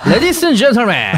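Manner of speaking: high, slow, giggly ladies and gentlemen; high-pitched announcement. Shown as a demonstration. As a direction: overeager high tone with a laugh. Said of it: "이렇게 할 건데". (하이 톤으로 경박하게 하는 기장 방송)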